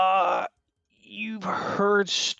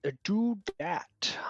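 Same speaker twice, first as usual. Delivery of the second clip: whisper; 6 semitones higher, slower than usual. Real, not acted. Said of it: "unvoiced whisper".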